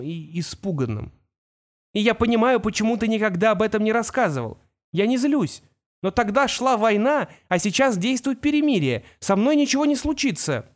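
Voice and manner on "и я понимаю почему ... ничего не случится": put-on young boy's voice, a bit higher; a son talking to his father, lightly raised boy voice; boy Kol. Kol reassures his father over the whirlwind, young boy voice.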